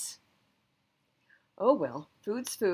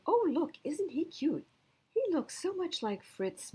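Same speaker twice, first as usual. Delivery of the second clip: put-on much higher, delighted child; excited boy voice; 10 semitones higher than usual. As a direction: squeal it like a kid who found his puppy. Boy sees dog at shelter.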